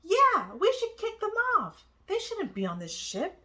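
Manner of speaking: loud, high accusing crowd voices; voiced as angry passengers turning on strangers. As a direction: shout them down as impostors.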